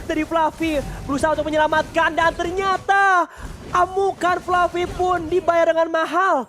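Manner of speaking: rising hype into a loud call; excited shout. Real, not acted. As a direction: build it up to a big climax. Climactic team fight call. (teriakan komentator penuh semangat)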